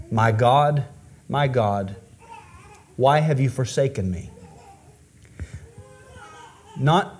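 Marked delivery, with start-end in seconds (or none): 0.1-4.3 a break of crying on the second my God; quoting Christ's cry from the cross, aching; anguished cry. Retold or imitated. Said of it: "cried out".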